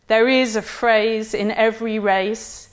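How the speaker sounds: lightly sing-song, distinct scripture reading; a hint of a clergyman's sing-song reading. A narrator's reading. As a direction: intone it like a clergyman at the lectern, lightly. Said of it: "sing-song, slow, distinct voice of a clergyman reading the scriptures".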